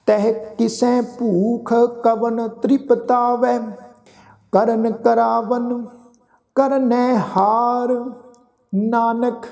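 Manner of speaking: slow, measured chanting of sacred verse; slow scripture recitation. Acted. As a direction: draw each word out reverently.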